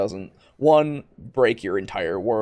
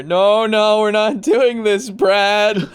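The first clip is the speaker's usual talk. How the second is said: louder, high, laughing refusal; exasperated laughing; 10 semitones higher, 7 dB louder, slower than usual. Acted. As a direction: plead through laughter, fed up. Player refuses again, exasperated.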